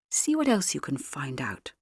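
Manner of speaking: hushed, voiceless instruction; urgent whisper to the girl. A narrator's reading. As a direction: whisper it so nobody overhears. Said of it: "I whispered".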